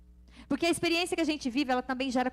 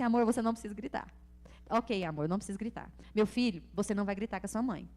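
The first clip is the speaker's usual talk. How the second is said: calm non-shouting husband; 3 semitones lower than usual. Retold or imitated. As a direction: imitate a husband gently talking someone down. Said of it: "O meu marido não é de gritar".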